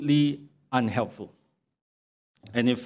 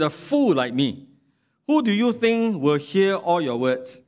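sarcastic reading; 5 semitones higher than usual. Acted. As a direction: lay on the fake gratitude. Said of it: "answered Bildad with sarcasm as well".

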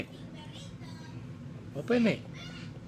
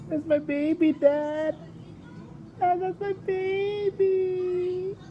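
excited; 11 semitones higher, faster than usual. Real, not acted. Child excitedly shows doll.

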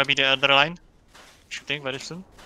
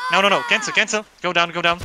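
urgent shout; 3 semitones higher than usual. Real, not acted. Urgently cancelling the command.

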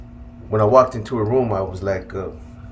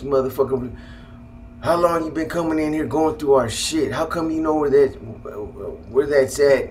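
higher-pitched imitation of mom's outrage; retold angry mom; 4 semitones higher than usual. Mom to son who invaded her privacy, imitated anger. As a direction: demand answers like an upset parent, mildly acted. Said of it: "she was mad. She was upset".

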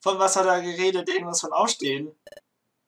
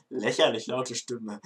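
laughing repeat; 4 semitones lower, 4 dB quieter, slower than usual. Acted.

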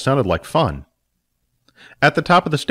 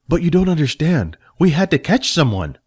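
lightly higher, defensive; a young helper pleading his case; Jack protesting; 6 semitones higher than usual. Acted.

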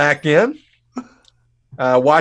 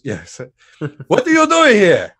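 put-on Russian accent. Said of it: "he had that Russian accent".

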